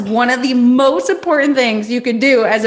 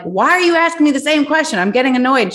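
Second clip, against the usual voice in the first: higher, exasperated quote; annoyed; 6 semitones higher than usual. Retold or imitated. Fed up with Susie's repeated questions, higher exasperated quote. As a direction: retell being fed up with the questions. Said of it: "And I'm like".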